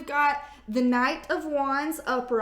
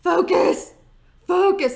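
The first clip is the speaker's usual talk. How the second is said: commanding focus; 5 semitones higher, 9 dB louder than usual. Shown as a demonstration. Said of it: "what all the beauty gurus do".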